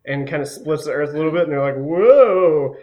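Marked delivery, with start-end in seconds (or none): 1.8-2.8 a sudden, loud startled cry; high, loud yelp of alarm; crowd gasp. Acted. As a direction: react as the earth splits under you. Zombie crowd cries out in shock.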